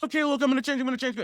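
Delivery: high-pitched mock pleading; pleading partner. Partner promising change to stop him leaving, mock pleading.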